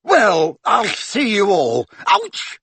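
sly farewell cut off by a sharp cry; Mundungus voice ending in a yelp. A narrator's reading. Mundungus voiced, then pained.

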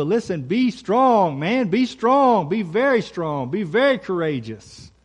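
a firm, rousing charge, peaking on the second Be strong; rally a soldier before battle; God exhorting Joshua. Acted. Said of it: "he wanted to make very clear to Joshua".

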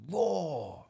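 high, drawn-out storybook roar; lion's roar. Acted. Lion pouncing at the box, playful roar. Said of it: "The lion pounced at the box".

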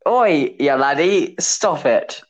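slow, drawn-out mock Central London accent; badly faked London telling-off. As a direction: ham up a joke London impression. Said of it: "Central London".

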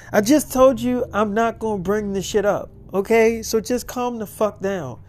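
impatient sister putting a stop to it; mildly exasperated. Acted. Sister snaps at worried sister.

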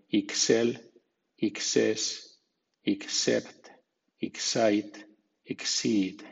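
"Ixel", "Ixept": begin each with a crisp "iks". Shown as a demonstration. Teacher shows how E X C sounds, ks in Ixel. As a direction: say Ixel, Ixes, Ixept, Ixait, Ixid with a ks sound. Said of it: "suena X".

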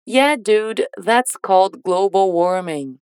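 slow, careful English model sentence for learners; slow model line. Shown as a demonstration. Teacher models the line slowly for students to repeat. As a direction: say it slowly so students can copy. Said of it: "vamos repetir essa frase depois do bip".

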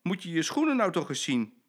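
loud, high scolding; wife scolding her husband's dirty shoes; scolding cry. Acted. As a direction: tell him off sharply. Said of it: "roept ze".

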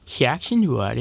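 gargling Adam Sandler voice; slow gargled Sandler; Adam Sandler impression. Shown as a demonstration. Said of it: "Let me try that".

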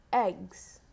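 each word slow and crisply spoken; dictating. Shown as a demonstration. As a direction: say it clearly for children to write. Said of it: "I will repeat each word two times".

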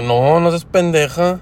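slow, drawn-out, mocking put-down; mock scornful retort. Imagined reply to the coworker, slow and mockingly scornful. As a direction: say it slowly, half-joking, as the reply you only thought. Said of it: "no le dije eso, pero en mi mente sí".

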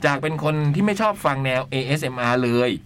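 measured, articulated read-aloud; letter reading. Acted. Host reading a listener's letter on air, letter-reading voice. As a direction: read it out in phrases with pauses.

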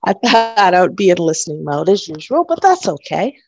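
slightly breathless speaking; out of breath. Real, not acted. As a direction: talk while catching your breath. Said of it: "I'm a little out of breath".

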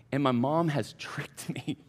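whispered, slow, with a laugh. Real, not acted. Preacher revealing mom's trick, laughing whisper. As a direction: let the reveal slip out in a chuckling whisper.

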